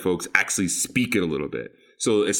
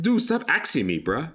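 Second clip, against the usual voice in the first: mock exasperation; 9 semitones higher than usual. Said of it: "It's like".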